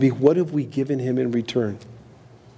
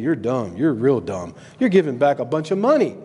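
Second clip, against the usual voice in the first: inner voice. Retold or imitated. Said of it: "the whole time I'm thinking".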